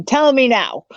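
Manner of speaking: put-on Miss Cleo Jamaican accent. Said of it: "with my terrible Jamaican accent".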